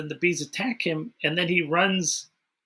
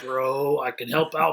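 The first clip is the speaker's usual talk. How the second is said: bro voice; 2 semitones lower than usual. Retold or imitated. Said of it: "maybe he was trying to bro up to them".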